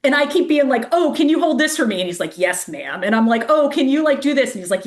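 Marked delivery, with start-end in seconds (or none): 0.9-2.0 higher-pitched asking voice; retold polite request. Runner asks her new pacer for help, higher-pitched request. 2.4-3.0 low reply, lightly imitated soldier; a hint of a dutiful military man. Military pacer answers the runner, lightly imitated low voice. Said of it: "former military guy too". 3.5-4.5 higher-pitched asking voice; retold polite request. Runner asks her pacer another favor, higher-pitched request.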